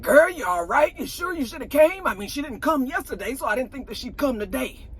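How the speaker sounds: high, sly catty voice. Retold or imitated. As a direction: needle her sweetly. Retelling Marlo's catty remark.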